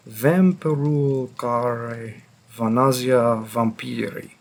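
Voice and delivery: put-on "Vampirul care Vanasia Vampiri" in clumsily accented Romanian; terrible Romanian pronunciation. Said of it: "Pardon my terrible pronunciation".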